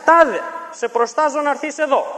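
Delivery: high, loud commanding call; shouted summons. Retold or imitated. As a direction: call out the spirit like a sorcerer. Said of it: "και άρχισε να φωνάζει". (δυνατή, επιτακτική κραυγή του μάγου)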